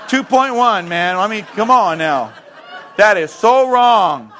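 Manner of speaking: mock outrage. Onlookers threatening to sue Jesus, mock outrage. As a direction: protest at full voice, hammed up.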